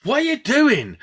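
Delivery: high, incredulous mock-laughing question; high-pitched retold disbelief; imitating amused partner. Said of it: "she's laughing and she's like".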